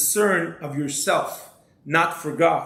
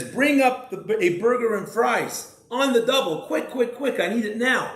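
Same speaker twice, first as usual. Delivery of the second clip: high, hurried mock yell down the phone; hammed-up demanding shout into the phone; mock scream; 6 semitones higher than usual. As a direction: bark the order like a pushy new hire. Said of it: "he screams into the phone".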